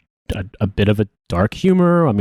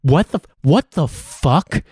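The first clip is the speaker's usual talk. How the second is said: mock disbelief; 3 semitones higher than usual. Veteran mocking Russia's fuel blunder, mock disbelief. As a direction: pitch it up in mock astonishment at Russia.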